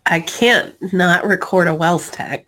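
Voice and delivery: sick, growly hoarse voice. Real, not acted. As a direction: talk through a growly sore throat. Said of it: "my growly voice".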